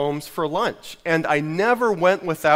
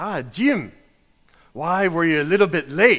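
horrible, bad, put-on Scottish accent. Retelling being asked at church why he was late, horrible Scottish accent. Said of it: "I admit my Scottish accent. Is horrible".

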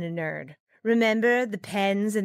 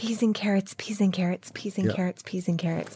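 fake, hushed stage whisper like a background chorus. Showing what ensemble actors said on stage: imitating a stage pretend whisper. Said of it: "as we used to say on stage when we were trying to pretend whisper".

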